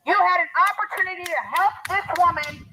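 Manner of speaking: trembling, accusing voice; shaking with anger. Real, not acted. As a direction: confront them, voice shaking. Confronting the family about the abuse.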